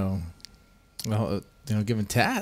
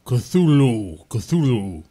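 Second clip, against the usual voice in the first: a lightly deepened, gravelly "Cthulhu"; low gravel vigilante growl; 3 dB louder, much slower than usual. Shown as a demonstration. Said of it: "You have to use that deep, gravelly voice".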